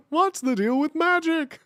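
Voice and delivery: a deliberately bad Seinfeld bit; bad Jerry Seinfeld. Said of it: "my Jerry Seinfeld is so bad".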